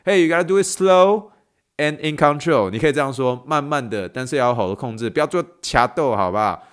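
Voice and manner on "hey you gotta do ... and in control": louder, higher urgent warning, rising on "do"; telling husband. Pretend. Wife warning husband carrying soup: loud, urgent. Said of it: "你跟他说".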